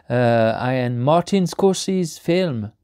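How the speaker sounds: slow, hammed-up German accent on the title; bad German accent. Vlogger reads a German Blu-ray cover in a bad German accent. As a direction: read the title in a mock German accent, slowly. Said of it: "Je viens de faire un accent allemand".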